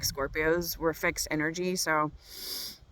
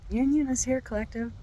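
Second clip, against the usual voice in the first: excited; 6 semitones higher than usual. Retold or imitated. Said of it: "And I was like".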